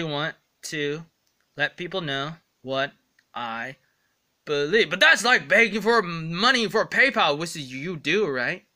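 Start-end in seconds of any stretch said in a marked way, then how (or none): 4.9-8.7 mock critic. Imagined critic arguing back.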